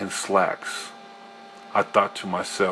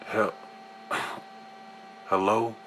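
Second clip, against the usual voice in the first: groggy sleepy voice; 7 dB quieter than usual. A narrator's reading. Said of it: "I said in a groggy, sleepy voice".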